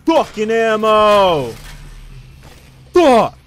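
sudden loud furious curse; angry outburst. Real, not acted. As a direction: explode in frustration at the game. Rage at losing a fight.

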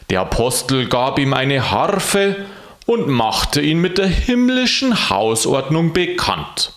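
lively Bavarian storytelling read; story reading. A narrator's reading. Reading the story to a friend, lively narration. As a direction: read the tale aloud with relish.

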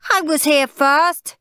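put-on high, loud, slow child's yell; high, indignant holler; shouted complaint. A narrator's reading. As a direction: shout it in protest. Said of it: "shouted Lazy Linda".

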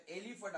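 एलिफंट opening on a short "eh", not "ee"; e sound. Shown as a demonstration. Teacher corrects the first letter's sound, एलिफंट with "eh". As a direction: begin एलिफंट with an "eh" vowel. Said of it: "असा उच्चार होतो".

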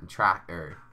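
attempted Norfolk pronunciation, "Tracker" for tractor; amateur Norfolk impression of "Tracker"; Norfolk accent. Shown as a demonstration. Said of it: "about as good as I'm gonna get".

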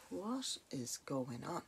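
slow, hushed bewilderment; baffled. Retold or imitated. Residents puzzled by cold blasts in the house, baffled. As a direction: draw the question out softly, at a loss.

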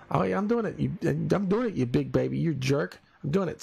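mock eager. Mimicking friend's eager reply.

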